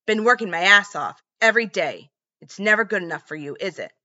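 bitter husband's rant; resentful, building at her; angry rant. Retold or imitated. John ranting at wife.

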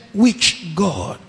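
low, soft, doubting question; bitter doubt. Retold or imitated. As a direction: ask it without hope. Despairing man doubts.

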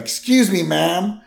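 high, polite mock Barney; polite drunk Barney. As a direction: ask the syrup lady nicely. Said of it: "He's like".

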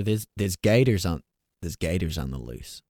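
put-on slipping into an Aussie accent while aiming for Southern; half-hearted Southern accent warning mom about gators; accent attempt. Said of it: "I still go back to the Aussie".

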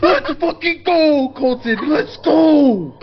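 high, excited cheering; hype cheer. Real, not acted. Teammate cheers Colton's lucky roll, high and hyped. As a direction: cheer your friend on hard.

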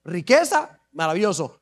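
low, drawn-out amazement; a boy dazzled by the reward, low and slow; awed David. Acted. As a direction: savor each prize in a low marveling voice. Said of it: "Y él dijo".

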